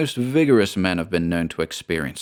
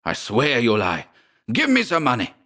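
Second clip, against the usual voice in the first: understated anger, rising to a higher demand; accuse, then demand on a raised pitch; half-stifled cry; 4 semitones higher than usual. A narrator's reading. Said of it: "in a half-stifled voice".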